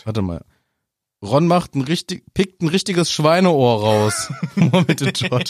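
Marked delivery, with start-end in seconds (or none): 1.2-5.5 slow, amused reading through laughter; laughing quote reading. Acted. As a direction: read it out slowly, starting to laugh. Jokingly rereads quote with invented proverb. (lachend langsam vorgelesen)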